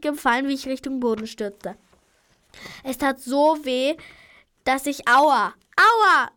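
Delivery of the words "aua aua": pained cries. Acted. Girl crashing to the ground, crying out in pain. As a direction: call out hurt after the fall.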